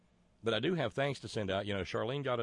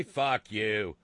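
loud snarled insult; loud curse; 2 semitones higher, 10 dB louder than usual. Acted. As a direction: spit it out at them. Cartoon Jesus cursing back.

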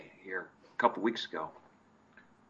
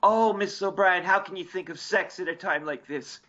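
Timmy voice; 6 semitones higher than usual. Retold or imitated. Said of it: "And Timmy goes".

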